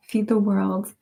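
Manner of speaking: ordinary talk, nothing marked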